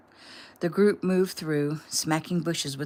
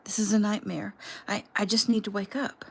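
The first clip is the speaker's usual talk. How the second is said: tearful; 5 semitones higher than usual. Acted. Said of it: "huge sobs welled up".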